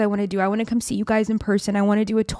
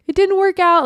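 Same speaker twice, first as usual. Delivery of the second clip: choked-up reply; 11 semitones higher, 5 dB louder than usual. Retold or imitated. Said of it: "I literally couldn't even choke out the words".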